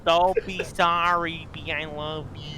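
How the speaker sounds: stretched-out squeak, high and loud; slow high squeaky voice. Retold or imitated. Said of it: "repeating the high voice line".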